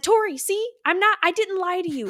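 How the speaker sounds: retold insistence. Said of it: "I said".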